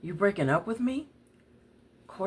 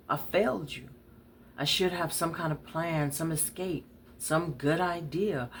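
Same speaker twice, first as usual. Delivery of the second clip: ordinary talk, nothing marked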